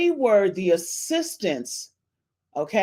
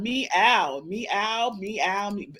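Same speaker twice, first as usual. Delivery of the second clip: cat meow; 3 dB quieter, much slower than usual. Shown as a demonstration. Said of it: "put the meow in the chat".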